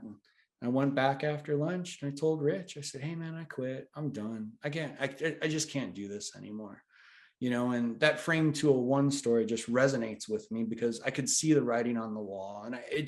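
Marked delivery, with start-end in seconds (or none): 3.0-6.8 quiet, subdued quitting, sinking at the end; retold weary resignation. Employee tells boss after lunch he quits, resigned. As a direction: softly re-enact giving up.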